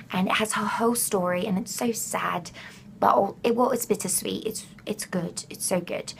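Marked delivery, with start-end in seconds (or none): 4.5-6.1 breathy whispered gush, almost to herself. Real, not acted. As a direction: whisper it like a precious secret. Gushing about the McGonagall story.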